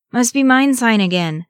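high, loud wheeze; wheezing. A narrator's reading. Merry quips while running from orcs, wheezing. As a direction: wheeze it out on the run. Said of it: "wheezed Merry".

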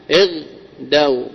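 اغدوا slowly, in two separate pieces; slow teaching breakdown of اغدوا with a gap inside; split into syllables. Shown as a demonstration.

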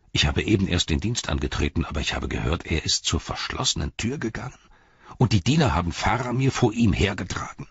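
lightly voiced anxious questioning; a touch of urgency; worried guard Beregond. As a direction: press for news, pitch lifting on the questions.

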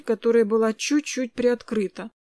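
usual speaking voice

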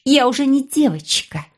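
high sharp snap; snapping girl. Acted. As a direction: bite back at him, pitched high. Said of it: "огрызнулась юная Айня".

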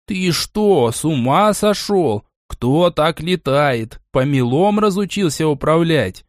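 high, slow, indignant scolding; the cat tearing into a clumsy flyer; scolding yell. Acted. The cat scolds the hero for crash-landing, with an indignant yell. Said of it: "завопил совсем другим тоном".

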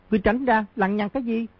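high, sharp scolding; young eunuch's scold. A narrator's reading. Young eunuch scolding the nosy boy, high sharp scold. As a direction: snap at him to get away. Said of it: "Tiểu thái giám quát".

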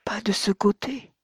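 put-on young woman whispering, correcting him; whispered. A narrator's reading. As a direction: whisper «Pas de ce côté» with a rising «de». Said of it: "lui dit la très jeune femme".

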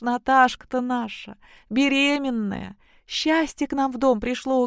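high, rapturous outpouring of joy; joyful lament. Acted. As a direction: gush with happiness, voice lifted high. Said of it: "Ну, запричитала".

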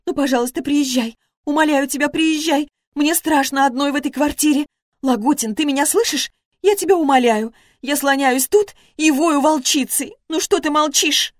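desperate tearful begging to her ex-husband; sobbing plea. A narrator's reading. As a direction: beg him through sobs like a frightened woman. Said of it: "Она захлёбывалась в слезах".

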